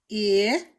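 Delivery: "I" as a short, loud i sound. Shown as a demonstration. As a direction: punch out the short "I" vowel. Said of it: "That's the short out I sound".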